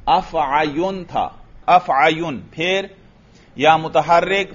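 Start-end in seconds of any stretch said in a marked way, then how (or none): 0.1-2.4 अफ़अयुन spelled out slowly with -yun ending; अफ़अयुन, measured, ending in -un; original word form. Shown as a demonstration. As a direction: sound every syllable of अफ़अयुन. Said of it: "अफ़अन असल में क्या था?".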